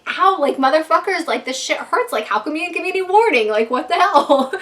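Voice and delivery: retold outraged yelp, playful; mock indignant complaint. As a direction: complain as if stung and given no warning. Retelling angry complaint to laughing friends.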